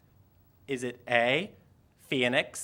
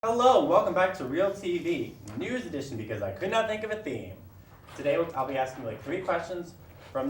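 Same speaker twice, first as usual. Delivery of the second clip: game show host; 3 semitones higher than usual. Acted. Host welcoming viewers back to the quiz show, upbeat announcer style. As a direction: open the show like a cheesy TV host.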